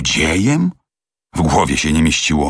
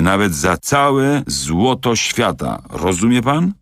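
a tipsy valet straining to stay loyal; understated drunken, slow loyal protest; drunken mumble; 3 semitones higher than usual. Acted. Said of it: "Z trudem zaczął bełkotać".

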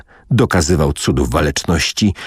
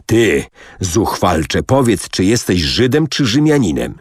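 usual speaking voice

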